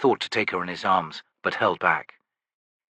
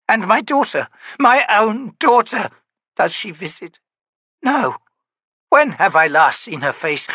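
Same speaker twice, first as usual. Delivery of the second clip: put-on high, strained pleading voice of a frightened old woman; anguished elderly mother, pitched well above the narrator; Myby, desperate old woman; 8 semitones higher, 4 dB louder than usual. A narrator's reading. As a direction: beg to be watched over, voice cracking up high. Myby's pleading lament.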